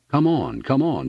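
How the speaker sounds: high-pitched hurrying call; urgent shout. A narrator's reading. Rancher dashing stablewards, urgent shout. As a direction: shout for them to follow you. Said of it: "shouted Annixter".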